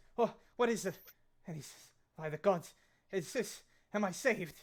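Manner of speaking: startled, jolted, high loud blurt. Narrating a game scene, voicing a character who startles back at the party, startled. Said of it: "he like kind of like startles back".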